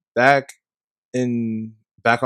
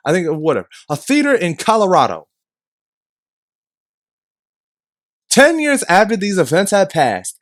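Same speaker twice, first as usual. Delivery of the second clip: angry rant; 3 semitones higher than usual. Real, not acted. Heated rant about shootings.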